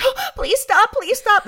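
very high, hammed-up panicked plea; desperate movie victim. Horror movie woman flagging down police, mock desperate cry. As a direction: beg like a horror-film heroine. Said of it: "horror movie when the woman finally sees a police car".

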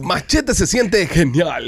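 slow announcer drawl; radio announcer voice. Acted. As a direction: stretch it like a radio host. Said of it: "voz de locutores".

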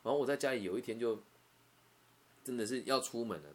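normal talking voice

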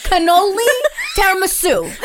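high laughing shouts. Real, not acted. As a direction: shout the desserts through laughter. Laughing mock date menu.

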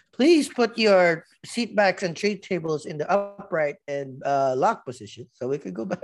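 cheery flight attendant announcement, laughing. Retold or imitated. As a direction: lightly imitate an airline announcement. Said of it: "my favorite line before that".

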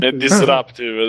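disruptive said the English way, dis-RAP-tiv; English pronunciation. Shown as a demonstration. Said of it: "devi dire". (disruptive pronunciato all'inglese, lento)

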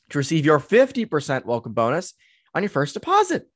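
punchy podcast ad read, key words punched; sponsor read. Acted. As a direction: sell it like an upbeat sponsor plug.

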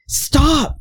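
high, drawn-out imitation of a son; mock exasperated plea. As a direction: plead up high, as if pestered. Son's plea over repeated pictures.

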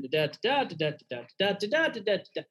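nonsense syllables bobbing up and down in a lilting preacher cadence; mock the sing-song pulpit tune on da da da; sing-songy preaching voice. Shown as a demonstration. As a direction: parody of a singsong sermon delivery. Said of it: "where all of a sudden I'm talking like this".

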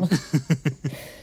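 short, nasal embarrassed laugh. Real, not acted. Laughing at her own bank mix-up, sheepish laugh.

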